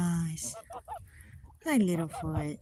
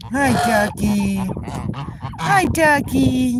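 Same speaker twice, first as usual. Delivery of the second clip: louder, slow cooing hello; higher slow greeting; 3 semitones higher, 4 dB louder, slower than usual. Real, not acted. Owner greeting her goose Ducky: slow louder cooing. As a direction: greet your favourite bird.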